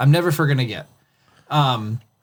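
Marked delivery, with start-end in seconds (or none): none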